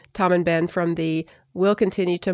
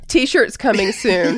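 laughing; 2 semitones higher, slower than usual. Real, not acted. Jokey merch announcement.

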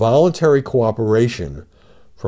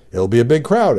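reading out an exclamation with a slight lift; exclamatory read-aloud; 5 semitones higher, 4 dB louder than usual. Retold or imitated. Host reading the former president's rally statement aloud, exclamatory. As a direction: quote it with a raised, mock-excited punch. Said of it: "exclamation point".

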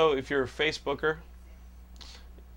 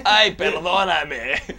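Spanish; 4 semitones higher, 5 dB louder, much slower than usual. Pretend. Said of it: "If they do it in Spanish".

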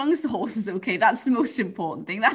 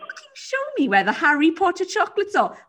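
mock threat, rising to a loud laughing growl; hammed-up menace breaking into laughter; menacing customer; 8 semitones higher, 4 dB louder than usual. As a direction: play the scary customer demanding chocolates. Acted rude customer quote.

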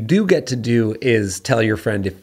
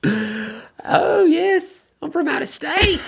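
very high, hammed-up character voice; Edith; much slower than usual. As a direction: pipe up as the uninvited cake surprise. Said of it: "Edith should pop out of a cake".

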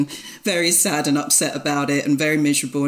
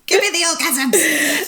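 high, laughing and louder; laughing demand; 10 semitones higher, 4 dB louder than usual. Real, not acted. Guest picking her topic, laughing greedy demand. Joking about picking orgasms.

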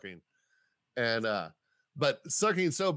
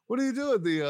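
high, louder crowd-work voice; imitating stage comedian; 10 semitones higher, 6 dB louder, much faster than usual. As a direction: call out to someone from the stage.

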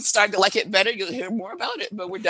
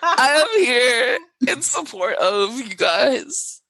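mock solemn; 3 semitones higher, much slower than usual. Slow, mock-solemn support.

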